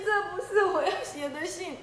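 same protest dissolving into laughter; lion giggling as he repeats it; laughing protest. Acted. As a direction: laugh through the denial.

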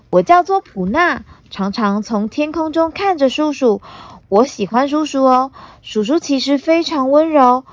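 put-on high, bright little girl. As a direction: chatter like a cheeky young girl. Voices little pterosaur Puna.

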